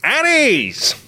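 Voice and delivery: high, booming stage shout; old-timey actor voice. Retold or imitated. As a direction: project it to the back row. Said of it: "he's got that voice ... old-timey movie voice".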